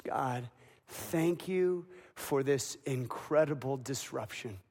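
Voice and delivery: soft, slow, fading prayer; hushed prayer. Acted. Mary thanking God over her newborn, hushed slow prayer. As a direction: breathe it to heaven, slowly, almost silent at the end.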